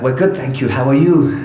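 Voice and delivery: imitating newcomers with an Afghan accent; thick Afghan accent. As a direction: answer politely in a put-on Afghan accent. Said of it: "thick Afghan accents at the time".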